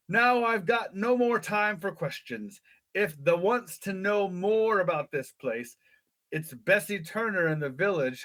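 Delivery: lightly voiced rustic English shepherd; a hint of old-country English accent; fascinating English dialect. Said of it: "with this fascinating dialect".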